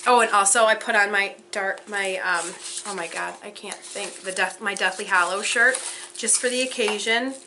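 ordinary talk

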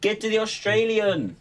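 high, loud mock announcer call. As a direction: bellow it like a game announcer.

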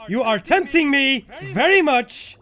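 high, punched angry words; exasperated cursing. Real, not acted. Gamer tempted to rage at a mine, exasperated cursing. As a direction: curse the mine with emphatic stresses.

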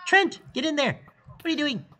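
high, loud urging cry; excited yelling at screen. Real, not acted. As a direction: shout the player into action.

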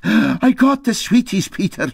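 a hint of a scared mate whispering a warning; Dougie fretting. Dougie warning Peter his wife is coming, nervous. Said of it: "he said".

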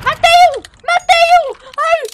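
high triumphant yell; excited shout. Real, not acted. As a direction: shriek with victory. First kill in game.

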